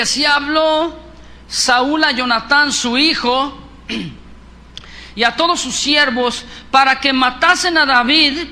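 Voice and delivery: slow, loud solemn reading of the verse; scripture reading. Acted. Preacher reading scripture to his congregation, slow and loud. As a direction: proclaim the verse slowly to the church.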